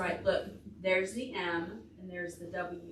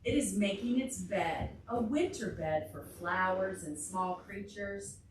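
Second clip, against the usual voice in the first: read-aloud storytime. Acted. Reads picture book aloud.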